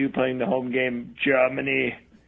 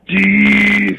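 calling out; 6 semitones higher, 9 dB louder than usual. Real, not acted. Drunk voicemail calling out.

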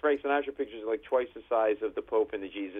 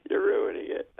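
whispered repeat. Retold or imitated. Repeated complaint.

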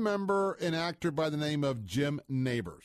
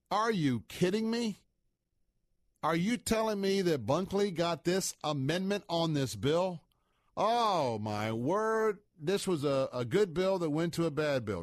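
mock outrage; 5 semitones higher than usual. Outraged reader discovering amendment.

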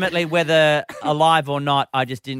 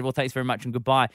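hurried goodbye; faster than usual. Retold or imitated. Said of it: "they said".

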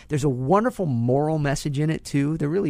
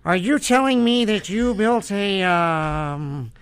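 incredulous young Marty McFly impression; Jay Baruchel as Marty McFly; 3 semitones higher, slower than usual. Marty McFly, stunned, questions Doc about the time machine. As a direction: stammer out disbelief at Doc like Marty. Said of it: "It'll be Jay Baruchel and".

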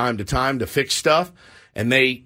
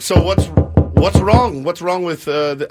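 put-on Russian accent; 3 semitones higher, 4 dB louder than usual. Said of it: "he's Russian".

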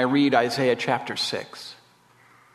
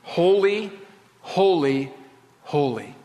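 solemn, spaced-out proclamation, stepping down in pitch; each word held and set apart, falling away; angels crying out. Acted. Preacher quoting angels in the throne room, solemn cry. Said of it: "the angels cry out".

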